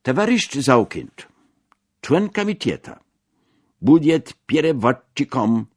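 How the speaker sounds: acted delegate's proclamation; meeting announcement. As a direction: announce it to a packed hall.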